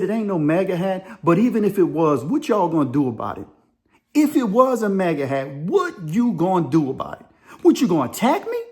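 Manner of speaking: lightly acted confrontational dare; prison-tough challenge. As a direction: challenge them, a touch of prison attitude. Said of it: "now the prison's coming out me".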